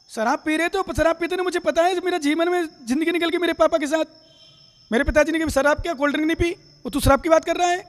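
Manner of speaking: acted indignant son. Acted son defending his father.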